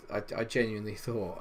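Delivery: normal talking voice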